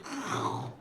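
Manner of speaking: low, soft mock munching noise; imitated gnawing noise. Steve hammering away at a leather sofa, imitated gnawing.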